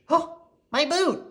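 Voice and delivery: high, slow joyful cry; happy cry. A narrator's reading. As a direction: burst out with delight. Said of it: "he cried happily".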